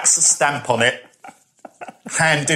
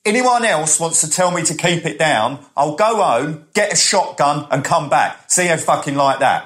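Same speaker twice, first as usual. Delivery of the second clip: mock threat announced to the room, raised pitch; out-loud threat; 4 semitones higher than usual. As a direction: imitate a loudmouth threatening everyone in earshot. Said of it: "out loud".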